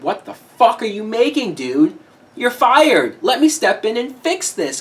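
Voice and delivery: imagined exasperated telling-off; indignant producer. Retold or imitated. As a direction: act out firing someone, mildly heated. Imagined producer firing the writer.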